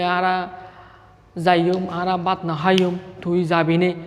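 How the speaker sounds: Bengali read in the Chittagong dialect; চট্টগ্রামের আঞ্চলিক টানে বলা. Shown as a demonstration. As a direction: say it the way Chittagong people talk. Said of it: "আমাদের চট্টগ্রামের ভাষা আমরা বলি যে".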